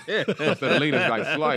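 talking through a laugh; words broken by laughter. Real, not acted. Laughing while telling.

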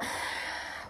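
soft, voiceless breath out; hesitant sigh. Acted. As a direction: sigh before the confession. Character hesitates before news.

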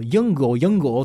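ユングをユングを as Mandarin Yīngguó, heard as 'yung'; friend's native pronunciation. Retold or imitated. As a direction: imitate a Chinese friend saying ユングをユングを. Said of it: "友達の発音を聞いて".

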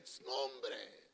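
slow embarrassed shush; slow hushed plea. Retold or imitated. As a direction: hush him slowly, embarrassed. Embarrassed reply.

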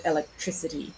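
"electricity" stressed on "tri"; stress towards the end. Shown as a demonstration. Teacher contrasting word forms, later syllable stressed in "electricity". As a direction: save the weight for "tri" in "electricity". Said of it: "with the stress towards the end".

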